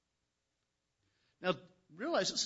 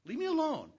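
retold yell at sister; 12 semitones higher than usual. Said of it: "And I'd say".

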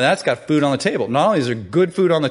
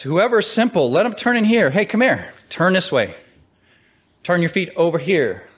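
calling out to passers-by; 5 semitones higher than usual. Acted. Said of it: "she calls to all that pass by".

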